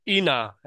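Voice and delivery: ইনা run together as i-na; n pulled onto the next vowel in ইনা; mistaken syllable split. Shown as a demonstration. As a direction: misread the start of inability as ইনা. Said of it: "কি করে ফেলতেন জানেন".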